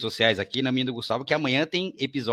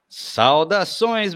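grand greeting; 5 semitones higher, 4 dB louder, much slower than usual. Real, not acted. Host hails the introduced guest.

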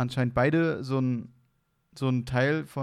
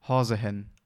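Hessian word; 3 semitones lower, 3 dB louder than usual. Shown as a demonstration. Showing a friend a Hessian dialect word, in broad Hessian. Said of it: "ich sag jetzt ein Wort".

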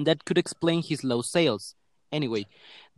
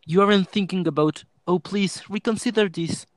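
raised-pitch, acted plea with mild distress; almost crying; 4 semitones higher, 4 dB louder than usual. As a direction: plead as if a touch tearful. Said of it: "almost crying".

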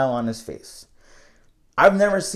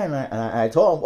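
ordinary delivery

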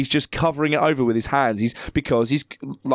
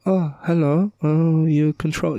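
softened voice; slower than usual. Retold or imitated. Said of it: "he softens his voice".

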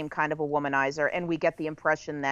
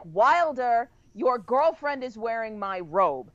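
yelling; 5 semitones higher, slower than usual. Retold or imitated. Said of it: "she yells to her father".

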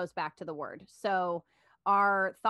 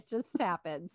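put-on light Russian accent. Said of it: "we talk in the Russian accents".

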